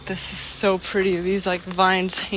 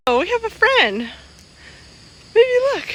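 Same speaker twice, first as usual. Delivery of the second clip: excited; 4 dB louder than usual. Real, not acted. Spots a monkey, calls partner.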